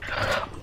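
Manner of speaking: soft exhaled sigh; low-volume breath out. Real, not acted. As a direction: let out a quiet, speechless sigh. Lost for words at play.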